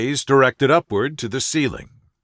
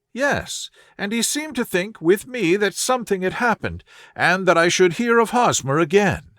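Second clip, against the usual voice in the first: put-on higher, earnest voice of a worried young woman; anxious young lady; 5 semitones higher than usual. A distressed visitor telling Holmes her fiancé vanished, higher and anxious. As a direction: plead your case, raised and anxious.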